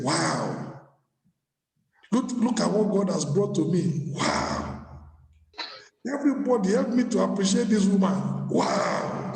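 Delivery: breathless wonder at a new bride; amazed husband. Retold or imitated. Husband marveling at his bride, hushed awe. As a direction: gasp it out like a man in awe. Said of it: "is like saying".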